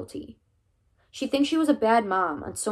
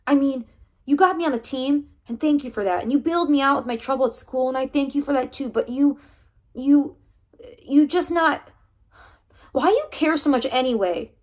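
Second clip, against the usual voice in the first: high, loud and hurt; boy yelling at his coach in the car; angry outburst; 6 semitones higher, 7 dB louder than usual. Acted. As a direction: throw the questions at him. Heated argument with coach.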